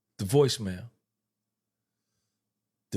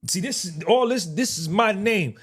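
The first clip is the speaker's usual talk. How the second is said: indignant; 4 semitones higher, 3 dB louder than usual. Retold or imitated. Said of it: "I said".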